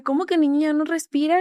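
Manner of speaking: mother repeating the news, stunned; shocked disbelief. Retold or imitated. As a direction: throw the words back in disbelief. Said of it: "Le dije".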